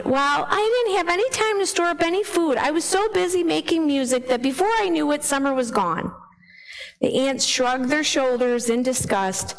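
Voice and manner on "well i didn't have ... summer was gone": whining grasshopper. Acted. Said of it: "the grasshopper whined".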